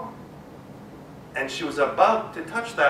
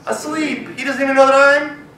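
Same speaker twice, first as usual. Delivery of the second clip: sneaky mouse; 8 semitones higher, 7 dB louder than usual. Acted. Mouse third time, kids join.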